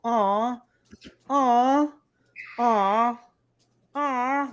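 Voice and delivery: high-pitched, drawn-out "aw"; audible cooing. Retold or imitated. Moviegoer reacting to every animal on screen, audible cooing. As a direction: imitate someone gushing over baby animals. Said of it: "like, audible".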